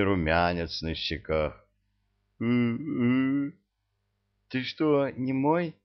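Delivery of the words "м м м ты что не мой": high, teasing seductress; sultry witch voice. Acted. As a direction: purr it out playfully.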